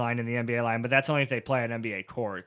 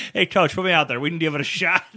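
eager player begging coach; 5 semitones higher, 7 dB louder than usual. Pretend.

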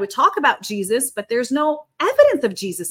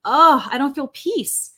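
burdened sigh; 4 dB louder, slower than usual. Retold or imitated. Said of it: "I feel that burden".

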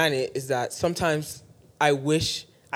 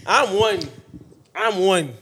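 yelling; 3 semitones higher, 5 dB louder than usual. Real, not acted. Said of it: "Why are you yelling?".

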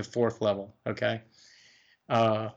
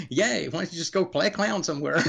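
high, laughing fake cheer; mock a gnome player with a laugh; 5 semitones higher than usual. GM teasing players who want gnomes, laughing mock cheer. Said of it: "I'm like".

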